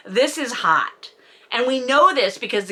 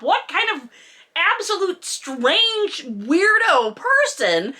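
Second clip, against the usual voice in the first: incredulous; 6 semitones higher, slower than usual. Real, not acted. Incredulous rant.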